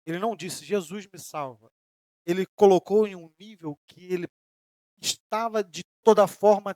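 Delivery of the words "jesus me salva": low-key, unhurried plea, softly said; merely spoken plea. Retold or imitated. Preacher showing what Pedro did not merely say, softly spoken. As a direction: quote a cry for help without raising the voice. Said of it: "ele não só falou, ele não disse".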